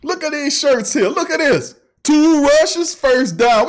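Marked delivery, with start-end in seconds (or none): 2.0-3.7 hyped slogan shout. Real, not acted. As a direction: yell it like a chant from the stands.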